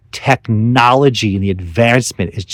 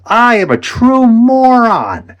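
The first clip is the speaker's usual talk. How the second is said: self-mocking; 11 semitones higher, slower than usual. Real, not acted.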